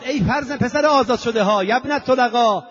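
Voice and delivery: ringing denunciation of a tyrant; crying out. Acted. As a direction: declaim it high and forceful, stretching the phrase endings. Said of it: "فریاد زد".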